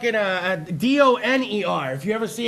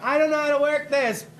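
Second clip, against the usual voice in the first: mock helpless shopper; 5 semitones higher than usual. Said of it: "You're like".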